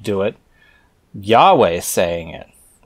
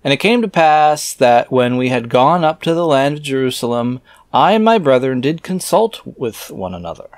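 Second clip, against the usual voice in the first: scripture reading; 4 semitones higher, 3 dB louder than usual. Acted. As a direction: intone the archaic words like a preacher. Reads scripture aloud.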